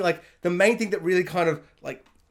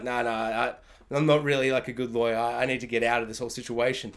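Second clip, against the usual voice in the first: lower Kim quote; 6 semitones lower, 3 dB quieter than usual. Retold or imitated. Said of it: "for her just to quit and be like".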